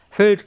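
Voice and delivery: ফির ending on a thick R; heavy R. Shown as a demonstration. Teacher showing learners ফির, heavy final R. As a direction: draw out ফির onto a full, heavy R. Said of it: "র মোটা".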